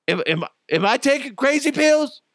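high disbelieving stammer; exasperated. Real, not acted. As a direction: cry out in disbelief. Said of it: "exasperated outburst".

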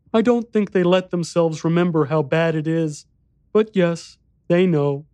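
put-on high, small boy's voice; little boy voice.

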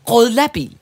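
"Grådlabil" as one word ending in -bil; intended word. Shown as a demonstration. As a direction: repeat "Grådlabil" with gråd, not grål. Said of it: "Jeg kan heller ikke udtale".

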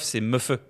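« meufeux » en deux syllabes, meu puis feu; détacher « meufeux » avec le e final prononcé; femme à l'envers. Shown as a demonstration. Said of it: "C'est pas meuf. Femme, meuf". (« meufeux », verlan non raccourci de femme)

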